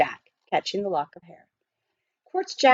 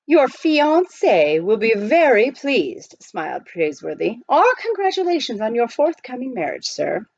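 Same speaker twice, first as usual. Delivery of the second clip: high, precise butler voice; proper butler; 4 semitones higher than usual. Acted. Butler explaining to the miner, politely proper. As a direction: speak like a correct English butler.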